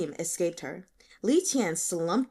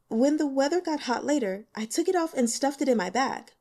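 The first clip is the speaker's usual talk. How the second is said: put-on higher, louder young woman, hesitant and eager; nervous student girl; 5 semitones higher, 3 dB louder than usual. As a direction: play the shy student a bit higher and louder. Student explains.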